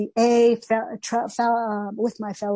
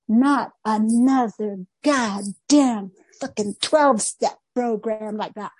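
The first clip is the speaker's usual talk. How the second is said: retold anger. Reacting to the therapist's reading, mad and exasperated. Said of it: "and I was mad".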